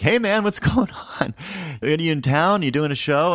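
high-pitched, oblivious tipsy stranger; tipsy chef. Retold or imitated. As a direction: imitate a friendly, slightly drunk chef. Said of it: "he's a bit intoxicated".

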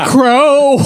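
high mock yell, laughing; retold scream.

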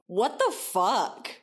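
slow, stretched "What the fuck?"; drawn-out disbelief. Real, not acted. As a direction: let each word hang in disbelief. Repeating the incredulous reaction.

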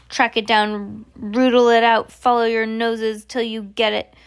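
loud barked orders; Grand High Witch ordering the hunt, loud; commanding hunt. Acted. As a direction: rouse the pack to hunt.

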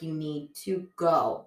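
deliberate, spaced-out parental order; mock firm instruction, drawn out; slow firm order. Retold firm order to daughter.

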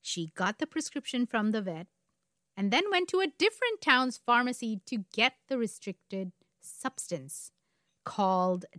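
deliberate storyteller with dramatic pauses; story narration. A narrator's reading. Host leading up to the murder, story narration. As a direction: build suspense, setting key words apart.

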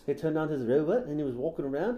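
mock-Kiwi storytelling, lifting at the end; New Zealand accent. Host riffing on a robot owner, New Zealand accent. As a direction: spin the tale in a Kiwi accent. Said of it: "doing more of a New Zealand".

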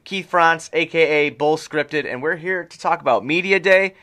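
booming circus ringmaster welcome. Acted. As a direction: announce it like a big top ringmaster. Ringmaster-style podcast intro.

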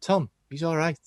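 put-on poor stab at a Scouse accent; failed Scouse impression of a teammate calling out; bad Scouse accent. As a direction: imitate a Scouse footballer, badly. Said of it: "I can't do Scouse accents".

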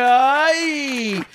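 high, loud camp "ay"; high mock "ay". Retelling the rooster encounter, high camp "ay". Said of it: "Y yo dije".

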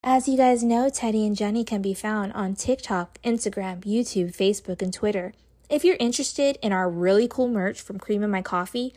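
upbeat scripted plug for the show; podcast outro read. Real, not acted. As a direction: read out the socials and merch like a host signing off.

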